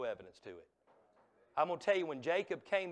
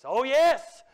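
high, loud preacher's exclamation; exultant shout; 10 semitones higher, 16 dB louder than usual. Acted. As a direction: burst out in full-voiced affirmation. Repeats the answer as an outburst.

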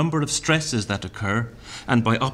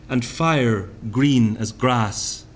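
slow, savoured poetry reading; poem reading; much slower than usual. Shown as a demonstration. Lecturer reading Thomas aloud, slow and savoured. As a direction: linger over each word.

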